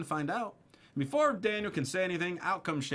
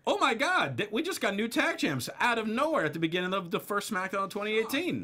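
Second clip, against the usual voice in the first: retold shock; 6 semitones higher than usual. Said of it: "we're all just like".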